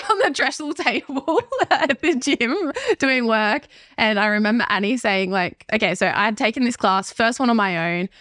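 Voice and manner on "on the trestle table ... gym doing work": high, slow, laughing through the words. Real, not acted. Telling the host about the makeshift gym office, laughing. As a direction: let giggles break up the phrase. Amused recalling bosses in the dungeon.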